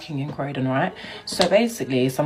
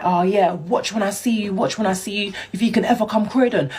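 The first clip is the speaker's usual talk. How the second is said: retold cussing; 5 semitones higher than usual. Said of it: "proper cussing me".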